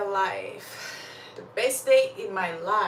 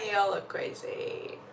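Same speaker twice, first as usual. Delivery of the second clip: whispering; 5 dB quieter than usual. Real, not acted. Laughing aside to chat.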